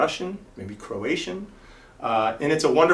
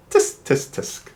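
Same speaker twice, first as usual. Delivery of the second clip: tsk tsk; slower than usual. Acted.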